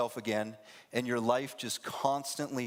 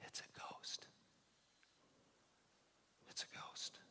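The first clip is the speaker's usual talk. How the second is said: spooky ghost whisper; 24 dB quieter than usual. Pretend.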